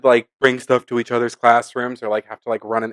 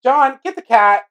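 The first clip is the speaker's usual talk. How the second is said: calling out; 11 semitones higher, slower than usual. Real, not acted. Calling to someone off-mic.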